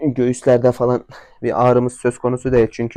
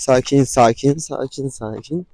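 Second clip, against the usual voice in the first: soothing. Real, not acted. Owner calming his spooked horse, soothing.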